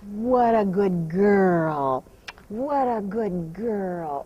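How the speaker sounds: very slow, drawn-out gentle praise; slow soothing praise. Real, not acted. Trainer soothing her mare after the cinch test, very slow. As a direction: stretch each word out to soothe her.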